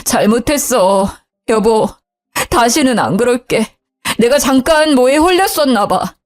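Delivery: tearful apology. Acted. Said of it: "울면서 사과하더라고요".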